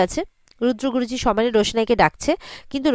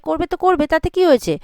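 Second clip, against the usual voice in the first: mildly defiant, pitched up; defiant retort; 5 semitones higher than usual. Retold or imitated. Mini brushes off Lalon's worry about home, mildly defiant. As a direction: toss it back with raised pitch.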